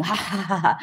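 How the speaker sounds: lightly imitated demon cackle; a mild mock cackle of the faces. Demon faces laughing at brother, lightly mocked cackle. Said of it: "they're, like, cackling".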